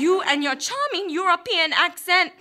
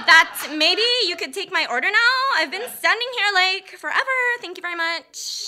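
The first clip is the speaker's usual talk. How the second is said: snooty customer; 4 semitones higher than usual. Acted. Ordering from barista, mock snooty customer.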